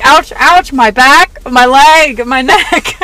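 loud, hammed-up complaining of pain; mock aching groans. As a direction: groan like an achy old lady. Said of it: "I'm like".

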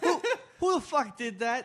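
high, laughing who-did-that; laughing mock innocence. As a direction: act shocked while laughing. Echoing the fake innocence.

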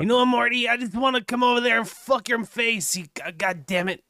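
rough attempt at a cartoon voice; Rick. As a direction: lightly imitate an irritated cartoon character. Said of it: "a Rick voice, but I suck at it".

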